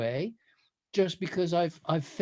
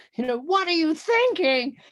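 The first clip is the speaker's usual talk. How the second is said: mock female screaming, much higher and louder; 9 semitones higher, 4 dB louder than usual. Retelling how a woman in the last car screamed at them, imitating her screaming. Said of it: "screamed profanities at us as".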